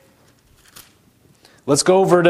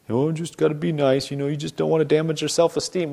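mock soothing voice; 5 dB quieter than usual. Mocking soft approach.

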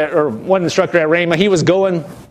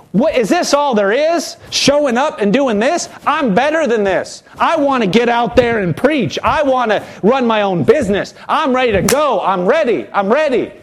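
retold mad complaint. Christian complaining to God about small tasks, mock mad. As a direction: imitate an impatient, fed-up believer. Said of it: "And people get mad at God".

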